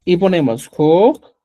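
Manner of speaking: slow, deliberate counting aloud; teacher counting slowly for the class. Shown as a demonstration. Slow, deliberate first number. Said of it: "teacher counting in Quechua".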